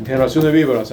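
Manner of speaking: stern preacher's rebuke, voiced as a demo; a touch of a harsh prophet's voice; forceful rebuke. Shown as a demonstration. God rebuking the stubborn believer, forcefully. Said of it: "te tiene que hablar así de fuerte".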